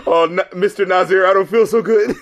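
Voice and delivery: lightly voiced fading victim; a touch of a dying hero; mock dying. Mimicking a movie hero fading away, lightly voiced. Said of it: "Thanos snaps his fingers".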